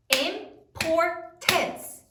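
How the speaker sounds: "Importance" drawn out syllable by syllable; slow syllables. Shown as a demonstration. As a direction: stretch out "Importance" so each syllable shows. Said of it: "How many syllables".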